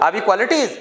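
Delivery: "Are we qualities?" asked naturally, rising at the end; question tone. Shown as a demonstration. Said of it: "जैसे question पूछ रहे हो". ("Are we qualities?" सवाल पूछने के लहजे में)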